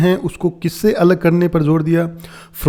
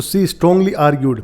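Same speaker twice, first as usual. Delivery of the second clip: slow quoting; much slower than usual. Shown as a demonstration. Teacher repeats phrase slowly.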